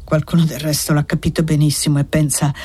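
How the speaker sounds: hint of a broken old man; old man's bitter lament. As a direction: grumble out your despair like a tired old man.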